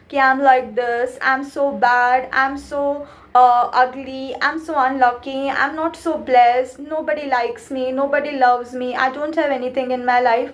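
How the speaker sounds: mild mopey complaining, half-hearted demo; gloomy self-pity. Shown as a demonstration. Coach demonstrating negative self-talk, mildly sad. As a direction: show the glum way of talking to yourself. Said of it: "If I talk like this".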